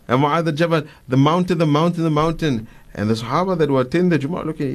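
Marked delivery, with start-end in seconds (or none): 1.1-2.7 higher-pitched, mild mock shout; retold shout. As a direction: repeat the warning call urgently without really yelling. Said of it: "he shouts".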